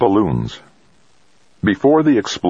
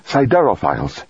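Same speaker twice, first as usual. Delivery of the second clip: a sudden excited burst, pitched up; waking biologist blurts his discovery, higher and eager; exclaiming; 7 semitones higher than usual. A narrator's reading. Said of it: "Fuchida exclaimed".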